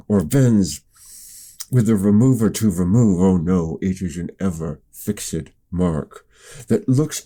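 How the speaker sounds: reciting with a pencil between teeth; pencil in mouth. Shown as a demonstration. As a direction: speak around a pencil held in the mouth. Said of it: "I've got a pencil in my mouth right now".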